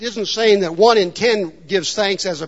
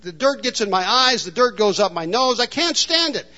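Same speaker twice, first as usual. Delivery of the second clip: whiner; 3 semitones higher than usual. Retold or imitated. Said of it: "He would go on and on".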